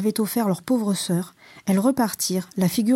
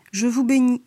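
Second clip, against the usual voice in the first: mocking; 3 semitones higher, 4 dB louder than usual. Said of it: "une voix narquoise".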